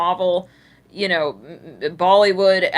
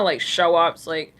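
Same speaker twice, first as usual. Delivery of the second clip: ordinary talk, nothing marked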